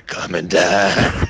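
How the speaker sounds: very slow walker voice; Lee. Acted. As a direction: drag it out as a zombie, half laughing. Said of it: "Lee as a walker just going".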